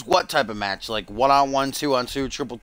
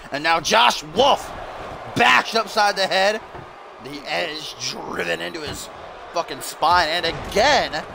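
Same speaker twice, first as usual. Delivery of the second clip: animated wrestling match commentary; lively ringside announcer voice; play-by-play; 3 semitones higher than usual. Pretend. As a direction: call each move as it lands.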